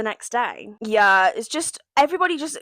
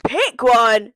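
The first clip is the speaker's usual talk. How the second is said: louder repeat; 7 dB louder than usual. Retold or imitated.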